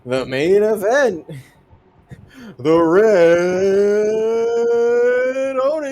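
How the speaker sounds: slow, drawn-out announcer call; ring announcer. Pretend. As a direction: stretch each word like a ring announcer. Ring announcer introduces main event.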